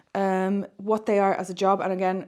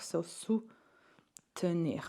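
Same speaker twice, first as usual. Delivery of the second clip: whispered aside; 7 dB quieter, much slower than usual. Shown as a demonstration. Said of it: "whispered aside to class".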